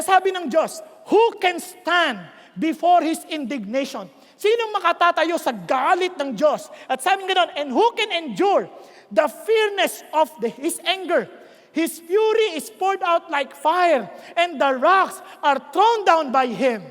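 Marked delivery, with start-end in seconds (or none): 1.1-4.1 emphatic scripture reading. Acted. Reads scripture aloud. 7.5-16.9 slow, measured declamation with heavy beats; emphatic scripture reading. Acted. Preacher reads of God's anger, solemn and emphatic.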